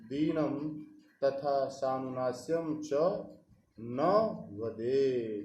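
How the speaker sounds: measured, chant-like reading of the Sanskrit verse; steady Sanskrit verse recitation; shloka recitation. Acted.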